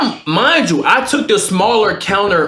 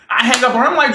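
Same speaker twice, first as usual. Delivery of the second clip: ordinary talk, nothing marked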